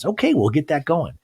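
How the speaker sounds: lightly voiced waiter taking an order. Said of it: "the waiter's like".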